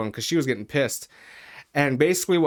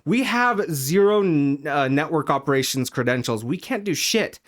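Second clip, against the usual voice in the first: tag; 2 semitones higher, 3 dB louder than usual. Retold or imitated. Acted quarrel with district manager.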